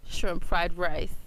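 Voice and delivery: put-on slow, lightly accented shrimp fried rice; a hint of an Asian accent, drawn out slow; mild Asian accent impression, slowed right down; imitating Asian accent. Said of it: "They say in their accent".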